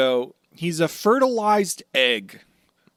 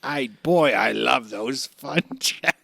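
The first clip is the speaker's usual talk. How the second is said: Buggy. Acted. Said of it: "Oh, yeah, Buggy".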